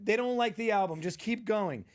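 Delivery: ordering him around mid-set, high and loud. Retold or imitated. Rich woman to the comedian, bossing him mid-show. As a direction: talk down to the hired comic. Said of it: "She goes".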